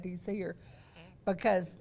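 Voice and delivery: wheezy, short of breath; wheezing. Real, not acted. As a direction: talk through a wheezy chest. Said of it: "can you hear that wheezing".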